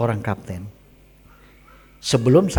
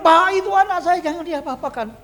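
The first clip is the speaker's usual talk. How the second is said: very high, insistent plea; pleading cry; 6 dB louder than usual. Retold or imitated. Woman pleads with police for her child, pleading cry. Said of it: "Tapi dia bilang".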